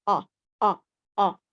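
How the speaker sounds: "O" as a long o vowel, repeated; O sound demo. Shown as a demonstration. Teacher modeling the o sound for young students. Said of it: "what letter is the O sound?".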